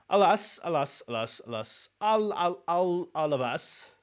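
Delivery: mock dramatic lament. Playful lament before reading.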